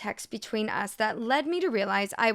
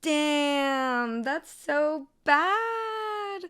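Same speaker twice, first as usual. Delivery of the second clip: mock crying; 6 semitones higher, much slower than usual. Mock dismay at lost wages.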